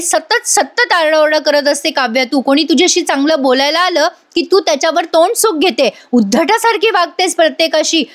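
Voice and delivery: a touch of heated rebuke, not shouted; retold scolding. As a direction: lightly voice an elder sister telling her off. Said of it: "आता नंदिनी मात्र तिला ओरडते".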